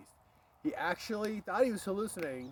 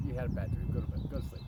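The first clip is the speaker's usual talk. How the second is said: dismissive dad; 6 semitones lower, faster than usual. Retold or imitated. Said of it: "He's just like".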